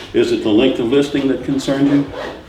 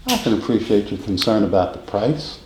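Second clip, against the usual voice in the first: soft and easy; 7 semitones lower, 4 dB quieter than usual. Shown as a demonstration. Salesman calmly cushioning a client's price concern, soft and easy. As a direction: lower and softer, nice and gentle. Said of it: "was that soft and easy and nice".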